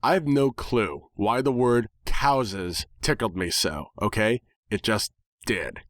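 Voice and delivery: ordinary delivery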